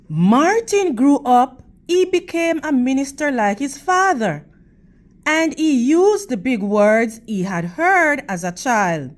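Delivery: expressive storybook reading for the class; teacher's read-aloud voice; reading to children. Acted. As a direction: read it to the kids, clear and gentle.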